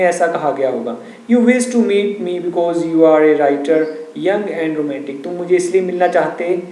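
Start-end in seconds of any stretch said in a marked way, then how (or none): 1.3-5.2 slow, measured textbook reading; story read-aloud. A narrator's reading. Teacher reading the story to students, slow measured read-aloud. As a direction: read out slowly, phrase by phrase.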